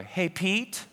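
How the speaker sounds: mild calling-out, voice lifting at the end; light, questioning call; mom calling. Retold or imitated. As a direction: imitate a mother calling for her little boy. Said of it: "hear my mom from the kitchen say".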